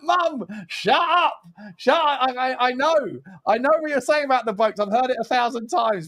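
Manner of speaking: high-pitched mock plea to mum; imitated fed-up son; exasperated. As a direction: whine it, drawing out the first words. Retold exasperated plea to his mum.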